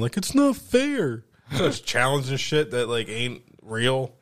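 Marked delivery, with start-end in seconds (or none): 0.2-1.2 high, drawn-out imitated kid whine; mock boo-hoo crying. Kid losing at Madden protests, mock crying. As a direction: whine it slowly like a sore loser. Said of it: "Boo-hoo fucking crying".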